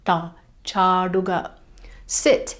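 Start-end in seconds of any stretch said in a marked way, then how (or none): 0.7-1.4 "chaduga" with a long, held ah and retroflex d. Shown as a demonstration. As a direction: draw out the first a in "chaduga", curl the tongue. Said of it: "Make sure it's a long ah".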